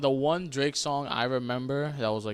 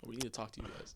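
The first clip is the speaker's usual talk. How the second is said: stern parent; 5 semitones lower, 13 dB quieter, faster than usual. Pretend. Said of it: "Everyone's gonna be at the dinner table like".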